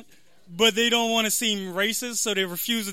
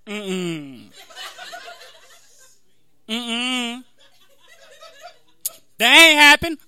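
hummed refusals, then a loud, higher dismissal; stereotypical skeptical woman; 3 semitones higher, 5 dB louder, much slower than usual. Acted. Conspiracy theorist denying the moon landing, caricatured disbelief. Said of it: "impression of a stereotypical black woman".

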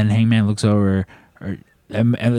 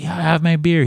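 excited cheer; 9 semitones higher than usual. Retold or imitated. Cheering Hangman at ringside.

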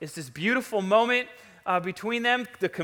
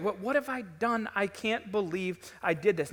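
softly stunned self-reproach; hushed remorse; 7 dB quieter than usual. Acted. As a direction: act out regret under your voice, dropping softer. Voices stunned remorse after wrongdoing.

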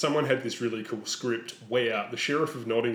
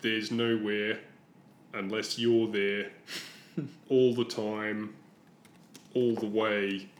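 mocking recitation; slower than usual. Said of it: "This is an example of Rob".

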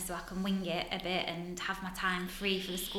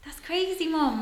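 higher-pitched startled disbelief; astonished child, imitated; 8 semitones higher, slower than usual. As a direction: imitate a son's amazed reaction to mum. Retells son's startled reaction.

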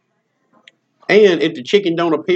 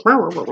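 chicken noise; 3 semitones higher than usual. Retold or imitated. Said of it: "chicken goes".

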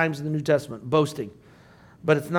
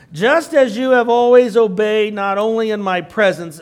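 raised, projected Bible-reading voice; scripture reading; 3 semitones higher, 6 dB louder than usual. Acted. Teacher reading Paul's letter to the class, projected scripture reading. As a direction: read the verse out to the room.

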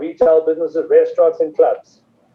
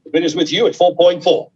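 auction bid spotter; 2 semitones higher than usual. Real, not acted. Auctioneer calling bids live.

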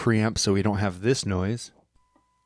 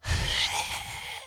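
wheezy voice; 9 dB quieter than usual. Shown as a demonstration. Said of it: "like, wheezing".

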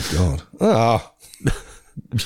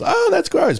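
mild disgust; slower than usual. Retold or imitated. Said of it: "and it's".

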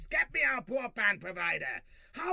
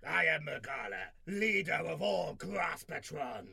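declaiming; 5 semitones lower than usual. Acted. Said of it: "No need to declaim".

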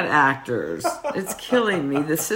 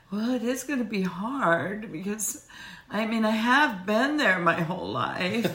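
put-on high, soft, hesitant little-boy whine; baby boy Brandon; 5 semitones higher, 3 dB quieter than usual. Co-host mocking Brandon's reluctance to leave home, in a baby-boy voice. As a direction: imitate a meek mama's boy, pitched up and quiet. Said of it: "bless his little baby boy heart".

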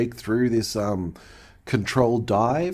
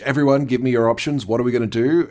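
raised, urgent mock command; retold shout; 4 dB louder than usual. Host retelling Picard addressing the bridge, mock shout. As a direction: call it out like a mildly pressed captain. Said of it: "shouts to the bridge".

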